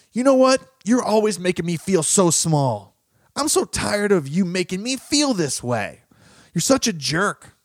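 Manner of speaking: imitating a partner lashing out in a fight. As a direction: imitate a hurt spouse snapping back, slowly. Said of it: "When someone lashes out".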